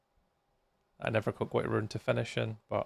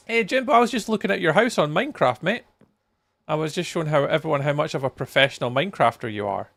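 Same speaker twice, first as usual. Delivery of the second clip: teasing call out; 4 semitones higher, 5 dB louder, faster than usual. Real, not acted. Loud teasing call to Jimbo.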